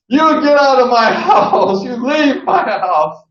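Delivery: high, loud mock outburst throwing the kid out; angry homeowner. Imitating Sonny yelling at a kid crashing his party, high and loud. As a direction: shriek them out of the house in a put-on voice. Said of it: "and he goes".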